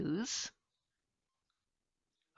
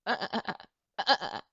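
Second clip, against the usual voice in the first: sheep bleat; 4 semitones higher, much faster than usual. Shown as a demonstration. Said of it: "and I make the sound".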